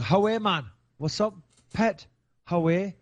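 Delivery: hammed-up Geordie greeting; Newcastle accent. Host mimicking how a Newcastle listener talks, Geordie accent. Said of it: "Says he talking Newcastle".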